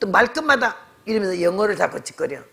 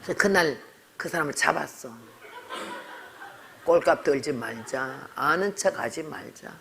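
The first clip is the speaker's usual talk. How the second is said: laughing; 4 semitones lower, 6 dB quieter than usual. Real, not acted. Punchline of the story.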